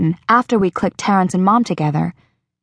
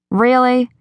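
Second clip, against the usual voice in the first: higher, slow, lightly voiced eager girl; Rachel's voice; 6 semitones higher than usual. Rachel talking her friend into homecoming, slow and higher. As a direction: nudge her gently toward the dance.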